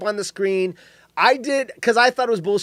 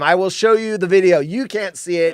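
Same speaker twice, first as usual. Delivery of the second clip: ordinary talk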